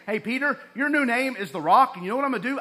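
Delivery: preacher voicing Jesus as he once misread him, eager. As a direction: sell the wrong reading with mock enthusiasm. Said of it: "I've always thought that".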